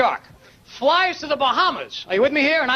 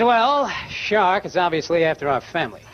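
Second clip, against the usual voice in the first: mother's voice; 5 semitones lower than usual. Retold or imitated. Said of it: "She says".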